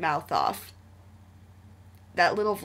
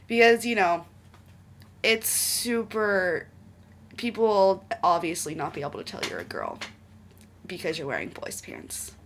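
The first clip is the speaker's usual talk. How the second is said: mock the story logic; sarcastic. Real, not acted.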